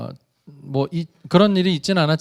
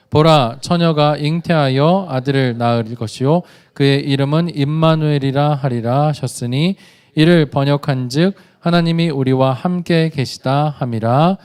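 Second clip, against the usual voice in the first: louder, measured reading of the verse; unison scripture reading; 6 dB louder than usual. Acted. Pastor reading Matthew with the congregation, loud unison reading. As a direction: read it aloud as one voice. Reads scripture aloud together.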